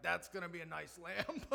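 rueful line with a laugh through it; wry laughing remark. Retold or imitated. Father joking to himself about the lamp, laughing. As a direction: laugh at your own bad luck. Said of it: "I'm like".

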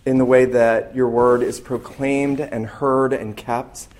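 hushed, reverent closing prayer. Acted. Pastor praying before the sermon, reverent and hushed.

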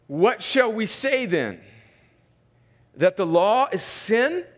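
slow, deliberate reading with long pauses; scripture reading. Real, not acted. Pastor reads Paul's question to congregation, measured scripture reading. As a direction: read the verse out as a weighed question.

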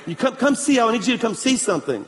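urgent request in a put-on Chinese accent; imitated Chinese accent. Missionary urges the pastor to come along, imitated Chinese accent. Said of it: "that's my best Chinese accent I got".

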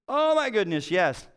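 light up at the answer; excited relief. Retold or imitated. Pastor finding the diagnosis online, excited recognition.

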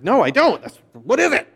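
mildly retold testy reply; a touch of annoyance toward his wife; husband mock-snapping at his wife, irritated.

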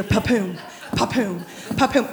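low, muted "pa-poom" beat; imitated bass thump. Woman trying to read scripture, low imitated party thuds. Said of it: "And I hear".

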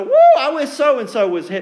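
loud, laughing smug churchgoer. Pretend. Preacher mimicking smug churchgoers, loud and laughing. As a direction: play the self-satisfied pew-sitter, laughing. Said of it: "These were the originators of the".

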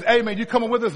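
casual buddy invite. Acted. Friend asking his buddy to come along, casual invite.

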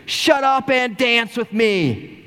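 put-on high, slow, playful little girl's voice; little daughter. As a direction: imitate your little girl teasing her dad. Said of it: "she looked at me and she goes".

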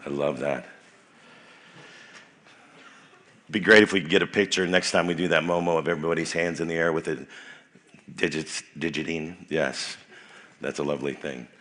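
quiet warm reflection; soft murmur. Real, not acted. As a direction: wind down gently. Soft reflection after chant.

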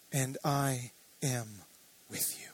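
hushed whisper. Retold or imitated. Preacher quoting God's comfort to Isaac, whispered. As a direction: whisper it like a promise in the dark. Kindly near.

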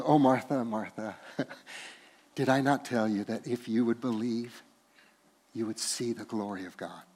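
tender rebuke. Acted. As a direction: chide her gently. Jesus gently rebukes Martha.

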